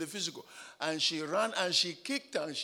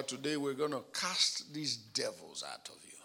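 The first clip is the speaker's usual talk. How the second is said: hushed unvoiced whisper; breathy hushed retelling; retold whisper; 6 semitones lower, 8 dB quieter than usual. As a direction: whisper it like a secret plan. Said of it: "I said to her".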